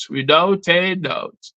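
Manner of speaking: Without a doubt, drawn out slowly as an echo. Shown as a demonstration. Poet echoes his closing line to viewers, slowly.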